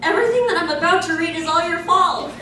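fast, laughing blame. Real, not acted. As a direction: rush it out giggling, half accusing. About to read silly story.

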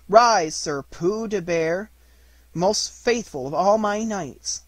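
slow, grand knighting; ceremonial proclamation. Acted. Boy knighting his bear with a stick, slow and ceremonial. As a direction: draw it out solemnly, pitch lifting at the end.

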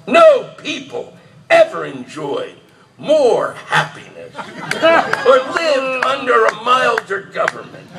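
mock royal address, read grandly; formal speech reading. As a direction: declaim it like a king before Parliament. Reading King George III speech aloud.

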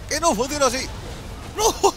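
high, loud exasperated yell at the screen; frustrated outburst. Real, not acted. Streamer yelling at his champion's failed move, frustrated high shout.

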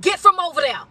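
put-on firm mama calling the kids home; old-school mama. Elder mama calling her child off somewhere she shouldn't be, firm. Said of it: "it came out just like that".

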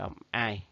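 "I" said as the diphthong eye; sound "ai". Shown as a demonstration. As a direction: pronounce "I" like English eye. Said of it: "Mấy câu kia là". (đọc "I" thành âm ai)

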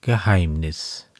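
slow, measured poem recitation; Gedichtvortrag. A narrator's reading. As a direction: recite the verse slowly, letting each line settle. Recites the poem before explaining it. (getragen vorgetragenes Gedicht)

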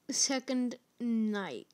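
breathy whispered aside. Real, not acted. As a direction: whisper it to yourself, slowly. Whispered reading of screen.

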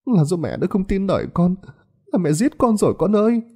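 high, sobbing self-blame; sobbing mother. A narrator's reading. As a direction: weep out the guilt of a mother. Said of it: "ôm mặt khóc nức nở". (người mẹ khóc nức nở, giọng cao)

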